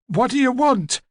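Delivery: put-on high-pitched demanding old lady; hoarse, rasping old woman. A narrator's reading. Old woman questioning a detective, sharp and rasping. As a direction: challenge the visitor in an old woman's high rasp. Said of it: "Her voice was hoarse and rasping".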